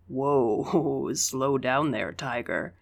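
light chuckle through the words, easygoing; laughing. A narrator's reading. William teasing the narrator for gulping, laughing. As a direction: laugh gently while teasing. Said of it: "he laughed".

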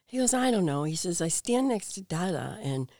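lightly voiced upset child. Son complaining to mother at Christmas dinner, lightly voiced child. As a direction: imitate a puzzled small son, pitch lifted.

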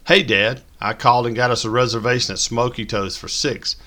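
bubbly daughter with news; lightly voiced eager teenager; peppy teenage voice. A narrator's reading. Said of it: "a peppy teenage voice".

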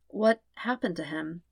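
soft, gentle question; softened voice. Acted. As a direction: ease off, let the hostility drop. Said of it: "softening her voice a little".

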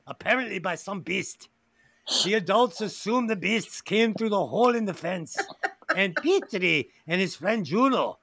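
put-on a half-joking Mexican-in-France accent for the film summary. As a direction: read the synopsis in a mock Mexican-in-France accent. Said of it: "You sound like a Mexican living in France".

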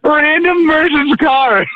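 high, slow words squeezed out through laughter; laughing so hard the words stretch out. Real, not acted. Telling the punchline to friends, laughing high and slow. Cracking up at his own story.

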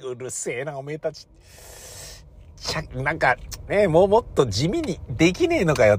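grumbling complaint. Retold or imitated. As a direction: gripe to himself at the noisy crowd. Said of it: "って".

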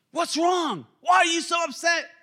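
high, exclaimed bewilderment; baffled protest. Acted. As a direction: cry out as the wrongly blamed one. Acting out baffled Saul protesting.

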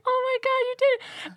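high, delighted exclaim; squealing oh my God; amazed cheer. Retold or imitated. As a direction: celebrate the unlikely hit. Amazed celebration.

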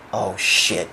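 low, hushed dread; imitating friends' quiet shock; oh-shit reaction. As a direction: murmur it low, as a stunned bystander. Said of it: "They did the "Oh, shit" face".

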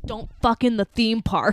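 punchy, measured telling-off; mock stern warning. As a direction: lay down the rule slowly and firmly. Paraphrasing scientist's aggressive warning.

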